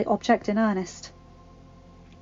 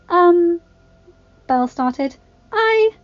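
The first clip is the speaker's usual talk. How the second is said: hesitant; 9 semitones higher, 6 dB louder, slower than usual. A narrator's reading. Belle hesitantly tries to speak.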